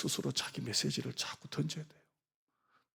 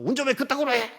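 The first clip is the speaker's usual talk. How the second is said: 높고 크게 쏘아붙이는 흉내; 화난 운전자처럼 높게 버럭; 12 semitones higher, 6 dB louder, faster than usual. Retold or imitated. Angry driver quoted. (끼어든 운전자가 설교자에게 버럭)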